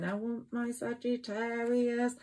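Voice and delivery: a hint of a yearning partner; imagined lover. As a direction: voice the lover's wish, lightly. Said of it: "they're going".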